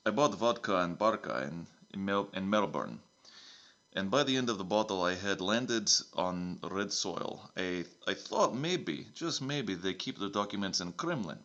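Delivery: lightly put-on Russian accent, broken English; a hint of Russian accent, dropping the articles; a mild mock Russian accent. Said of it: "it's a Russian accent now".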